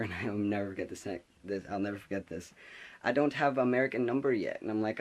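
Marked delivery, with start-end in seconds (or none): 3.0-4.6 higher mock Finnish-accented English; a hint of Finnish accent, pitched up; imitated Finnish accent. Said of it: "she has this beautiful accent".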